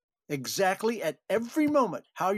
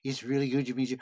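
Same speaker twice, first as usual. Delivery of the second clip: imitating Jim Sedow; 4 semitones lower, faster than usual. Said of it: "he had a real wonderful way of talking".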